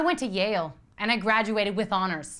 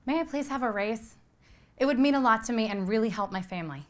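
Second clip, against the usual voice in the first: sweeter tone. Acted. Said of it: "ask me in a sweeter tone".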